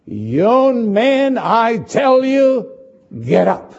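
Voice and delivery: a touch of a loud command; commanding call. Acted. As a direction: call the dead man up with authority. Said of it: "and said in a loud voice".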